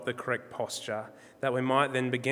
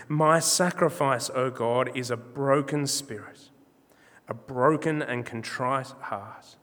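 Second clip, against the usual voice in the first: emphatic, measured psalm reading, easing down at the close; scripture reading; 4 dB louder than usual. Acted. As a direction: read the verse out to a congregation with weight. Reads the psalm aloud to congregation.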